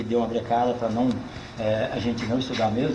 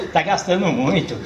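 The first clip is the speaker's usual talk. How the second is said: higher, laughing mock scolding; teasing mother; 4 semitones higher than usual. Mother teases her son about fancy talk, laughing. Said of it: "a minha mãe".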